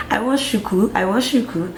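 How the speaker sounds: put-on young self asking in Nigerian accent. Telling mom which hairstyle she wants, Nigerian accent. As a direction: slip into a Nigerian accent for the request. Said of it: "sorry, that's a Nigerian accent".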